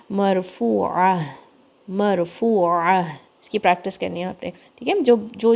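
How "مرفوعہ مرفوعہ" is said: مرفوعہ slow, the ha from the bottom of the throat. Shown as a demonstration. Teacher drills مرفوعہ slowly, sounding from the throat. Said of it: "حلق کے سب سے نیچے سے آواز".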